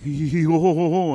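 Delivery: a loud, jeering mock laugh. Gamer mimics French-Canadian kids gloating over the score, loud mock laugh. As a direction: taunt him with a hammed-up ho ho ho. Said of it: "in their stupid French fucking accents".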